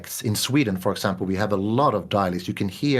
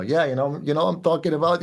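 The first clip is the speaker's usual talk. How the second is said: put-on higher, breezy Italian New York accent; 6 semitones higher than usual. Mimicking New York Italian YouTubers, light Italian New York accent. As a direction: swagger it like a Brooklyn Italian YouTuber. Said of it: "they have this strong Italian accent".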